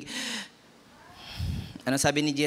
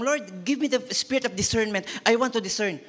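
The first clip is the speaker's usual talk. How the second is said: mock pleading prayer; 4 semitones higher than usual. Mocks a needless pleading prayer.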